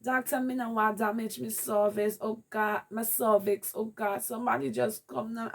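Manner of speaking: high, panicked patois plea; frightened patois cry for help. Retold or imitated. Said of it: "And I start crying".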